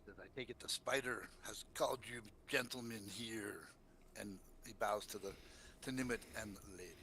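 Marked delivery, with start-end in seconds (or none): 0.1-3.7 lightly voiced suave gentleman; mildly courtly, accented drow voice. Suave drow greets the newcomers in the mine, lightly accented. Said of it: "He's very suave".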